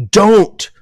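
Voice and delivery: loud command. Real, not acted. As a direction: bark the word out as a warning. Preaching, sudden loud command.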